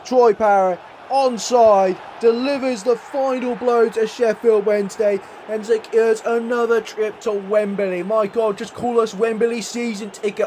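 thrilled late winner; excited goal call. Real, not acted. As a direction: sell the winner to the crowd. Winning goal call in commentary.

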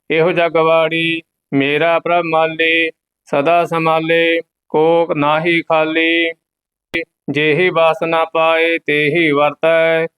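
level, monotone Gurbani chant; measured devotional reading; scripture recitation. Acted. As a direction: recite on one steady note with a held ending.

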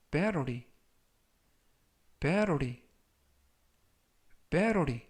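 "battery" three times, long pause after each; slow model reading. Shown as a demonstration. Teacher reviews vocabulary for followers, slow model reading. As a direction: read out "battery" slowly for learners to repeat. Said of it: "천천히 세 번씩 읽어드리고요".

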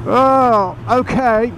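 slow, lightly put-on posh accent; a hint of a posh toff. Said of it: "this is my posh voice".

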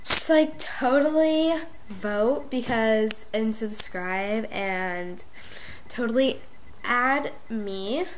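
put-on airhead girl signing off the video; valley girl character. Dorothy character closes the video.

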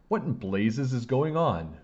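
slow, indignant question; demanding. A narrator's reading. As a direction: demand an explanation, drawing the words out. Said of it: "Mister Banner demanded".

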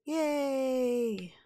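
loud happy cheer; dawning joy. Real, not acted. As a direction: celebrate the breakthrough. Puzzle progress cheer.

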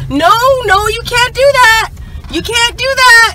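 pretend-shocked passenger; mock scolding. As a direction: scold the rule-breaker in jest. Mock scolding rebel driver.

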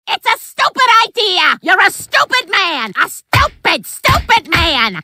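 angry scolding. Acted. Lois furiously scolding Peter.

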